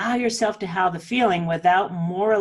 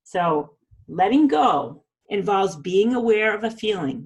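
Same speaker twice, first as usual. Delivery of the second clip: slow repeat. Shown as a demonstration. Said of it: "I'm gonna say this again".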